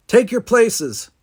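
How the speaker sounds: high, loud, drawn-out command; shouting. A narrator's reading. Commander Baxter orders cadets to places, shouting. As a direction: call it out to the whole band. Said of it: "walked by and shouted".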